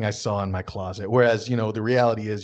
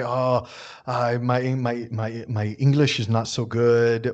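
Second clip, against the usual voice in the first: halting, mildly acted modesty; humble; slower than usual. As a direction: stumble modestly over the words, slowing down. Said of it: "they're gonna very humbly say".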